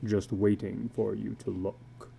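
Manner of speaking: a weary tattooed man confessing low; illustrated man. Acted. Tattooed man confiding to a stranger at dusk, low and weary.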